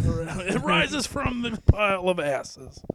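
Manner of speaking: laughing through a slow joke line; drawn out, giggling; slow laughing delivery. Real, not acted. Joking about phoenix.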